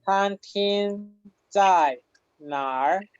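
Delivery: very slow "Tan King Zai Nar", syllable by syllable; "Tan King" level, "Zai" falling, "Nar" rising at the end; lectura modelo. Shown as a demonstration. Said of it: "cuando preguntamos". ("Tan King Zai Nar" muy lento, marcando cada tono)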